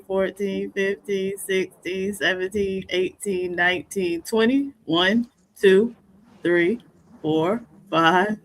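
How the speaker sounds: calling out each rep; counting workout reps. Real, not acted. Counting push-ups for him.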